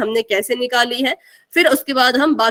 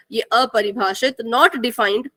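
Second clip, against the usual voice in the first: slow emphasis; 2 semitones lower, much slower than usual. Shown as a demonstration.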